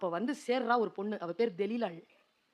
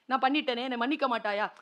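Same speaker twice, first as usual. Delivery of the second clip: anguished cry; 8 semitones higher, 13 dB louder than usual. Retold or imitated. Preacher cries out to Samson over his betrayed secret, high and loud. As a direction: wail it at Samson like a heartbroken elder. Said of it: "ஐயோன்னு நினைச்சேன் நான்".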